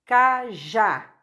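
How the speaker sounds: "cajá" with the final syllable stressed; tônica na última sílaba. Shown as a demonstration. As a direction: say "cajá", leaning on the last syllable. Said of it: "Qual é a sílaba mais forte?". ("cajá" com a última sílaba mais forte)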